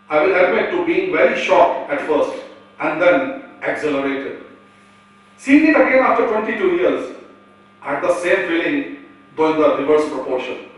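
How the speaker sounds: formal, measured read-aloud of an email; reading a statement aloud. Real, not acted. Presenter reads doctor's mail on the play, formal reading. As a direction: deliver it as a prepared text, phrase by phrase.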